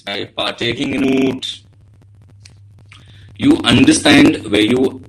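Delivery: cracking, hoarse voice. Real, not acted. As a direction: voice breaking up over a bad mic. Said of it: "your voice is cracking a little bit".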